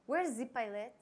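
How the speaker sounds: lightly imitated thick French accent, "the" as "zee". Customs agent looking for the pilot, imitated French accent. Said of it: "thick accent, comes up and says".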